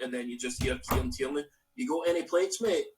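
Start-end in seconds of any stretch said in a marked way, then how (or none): 1.8-2.9 imitating a Glasgow ned; a hint of a rough Scottish ned accent; Neddy Scottish voice. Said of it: "in that pure Neddy Scottish voice".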